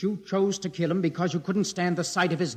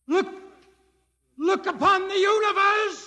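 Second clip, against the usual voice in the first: high, louder exclamation; awed proclamation; 12 semitones higher, 4 dB louder than usual. Acted. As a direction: reveal the universe in awe. Climax of Hoyland's speech.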